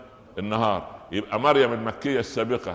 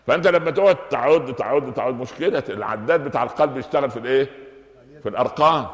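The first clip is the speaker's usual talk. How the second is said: louder, insistent counting; emphatic preaching; 3 semitones higher, 5 dB louder than usual. Real, not acted. Preacher scolding listeners who keep counting, loud. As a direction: drive it home with force.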